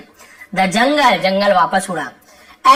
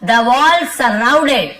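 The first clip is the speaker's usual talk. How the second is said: very slow, word by word, a bit louder; slow dictation; 2 semitones higher, 4 dB louder, much slower than usual. Shown as a demonstration. Teacher reading the lesson sentence to students, slow and deliberate. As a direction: read it out slowly so the class can follow.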